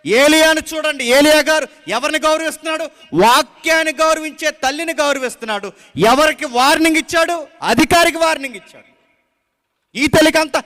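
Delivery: loud, driving sermon delivery; forceful preaching. Acted. Preacher exhorting the congregation, loud and forceful. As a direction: preach it out to the whole church.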